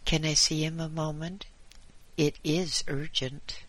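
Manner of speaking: urgent visitor. Acted. Visitor's urgent plea at door.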